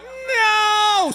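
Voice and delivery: high, loud cry of panic; a loud, high, panicked no; panicked shout. Retold or imitated. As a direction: yell it as it all goes wrong. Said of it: "and I went".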